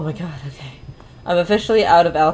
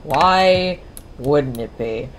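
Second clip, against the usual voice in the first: sarcastic; slower than usual. Real, not acted. Annoyed at missing fuse.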